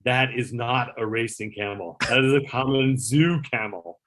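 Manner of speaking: slow, lofty, nose-in-the-air; snooty dismissal. Retold or imitated. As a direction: look down on the camel, unimpressed. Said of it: "turns up his nose".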